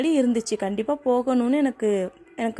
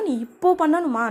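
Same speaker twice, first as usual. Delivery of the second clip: "இப்போ" pushed up higher; stress on "இப்போ"; 5 semitones higher than usual. Shown as a demonstration. Teacher explaining the meaning of stressed now, stress on "இப்போ". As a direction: punch "இப்போ" with raised pitch. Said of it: "now-வை stress பண்றேன்னா".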